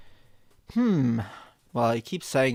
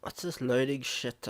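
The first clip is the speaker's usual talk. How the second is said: usual speaking voice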